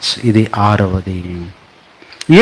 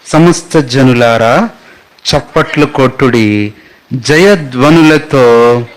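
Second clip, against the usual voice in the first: reading scripture aloud; slower than usual. Shown as a demonstration. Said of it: "చూడండి".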